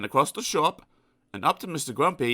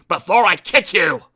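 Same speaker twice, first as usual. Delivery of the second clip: snapped; 3 semitones higher, 11 dB louder than usual. Acted. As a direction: growl him aside. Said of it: "snapped Mister Grumpy".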